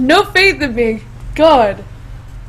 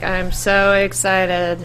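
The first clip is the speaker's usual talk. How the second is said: fake excitement; 7 semitones lower than usual. Shown as a demonstration. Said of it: "I can't be like".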